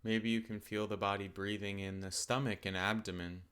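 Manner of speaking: calm, unhurried meditation guidance with long pauses; guided meditation. Acted. Teacher settling listeners into open awareness of the body, calm guided meditation.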